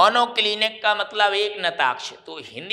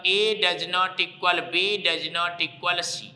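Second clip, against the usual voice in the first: slow dictation; 3 dB quieter, much slower than usual. Shown as a demonstration. Teacher dictating the condition to students, slowly. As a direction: slowly spell out each part. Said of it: "ऐसा लिखना आपको".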